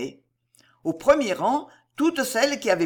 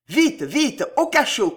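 high, raised commanding voice; urgent command; 6 semitones higher, 5 dB louder than usual. A narrator's reading. Cato sending troop to dungeon, urgent command. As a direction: order them to hurry. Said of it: "commanda Cato".

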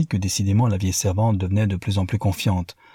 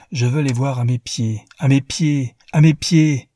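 each à mes pieds louder and higher; rising fury; 5 semitones higher, 5 dB louder than usual. Acted. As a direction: build from firm to a furious shout. Newman vows revenge, repeating.

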